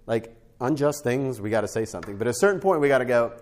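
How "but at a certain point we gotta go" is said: high, loud rising emphasis; preaching climax. Real, not acted. Preacher pressing the congregation, loud and high. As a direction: lift it like a pulpit point.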